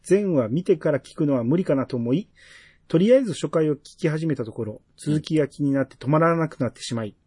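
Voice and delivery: measured, evenly phrased read-aloud; reading a listener's message. Real, not acted. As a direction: read the letter out clearly, phrase by phrase. (お便りを丁寧に読み上げる口調)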